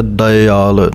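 ਦਇਆਲ with a clear ee sound after ਦ. Shown as a demonstration. Teacher models ਦਇਆਲ for students, careful pronunciation. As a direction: say ਦਇਆਲ as d-ee-aal, not ਦਿਆਲ. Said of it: "ਈੜੀ ਦੀ ਆਵਾਜ਼ ਆਉਣੀ ਚਾਹੀਦੀ".

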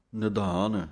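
ਨਿਧਾਨ with an aspirated ਧ sound; correct pronunciation. Shown as a demonstration. Teacher models ਨਿਧਾਨ for students with a heavy aspirated ਧ. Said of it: "ਧੱਦੇ ਦੀ ਆਵਾਜ਼ ਦੇਣੀ ਹੈ".

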